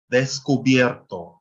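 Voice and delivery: descubierto said slowly and carefully; slow teacher's reading of "descubierto"; syllable division demo. Shown as a demonstration. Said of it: "the division is made before the last consonant".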